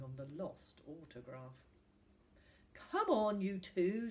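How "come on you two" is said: brisk, louder rallying call. A narrator's reading. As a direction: chivvy them along briskly. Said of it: "she said briskly".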